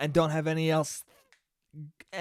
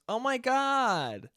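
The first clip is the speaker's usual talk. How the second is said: mock excited squeal; 3 semitones higher, slower than usual. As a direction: imitate a gushing girl's squeal. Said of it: "and just screamed".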